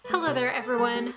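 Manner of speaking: greeting breaks into a laugh; laughing through it. Real, not acted. Retaking her intro, laughing through the greeting. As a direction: giggle as the words come out. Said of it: "I needed to clear my throat".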